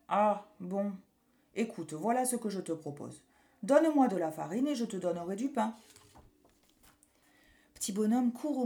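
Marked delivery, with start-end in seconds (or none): 0.1-5.7 a lightly voiced baker. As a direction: offer the deal like a kindly baker. Baker proposes trade.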